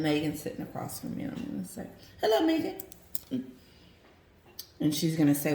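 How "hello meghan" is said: much higher, slow put-on Charles greeting. Charles greeting Meghan across the table, slow and high. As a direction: greet her in a stiff put-on royal voice. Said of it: "I'm gonna be Charles".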